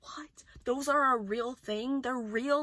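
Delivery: hushed, incredulous whisper; whispered disbelief. Real, not acted. Disbelief about reality.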